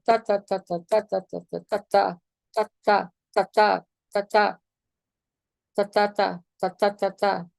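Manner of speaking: ta syllables with some punched harder; accented ta rhythm. Shown as a demonstration. Teacher demonstrates accents by chanting ta. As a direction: lean on the accented ta beats. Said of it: "you change the dynamic".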